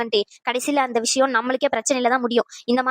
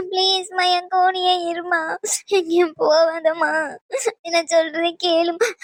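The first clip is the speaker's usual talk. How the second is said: slow tearful pleading; 2 semitones higher, slower than usual. Acted. Daughter pleading mother stay.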